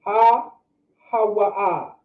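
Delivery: Ha-ha-wa-ah drawn out very slowly, syllable by syllable; slow sounded-out syllables. Shown as a demonstration. Teacher slowly sounds out each syllable for students. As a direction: spell out Ha-ha-wa-ah slowly for learners. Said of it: "This is pronounced".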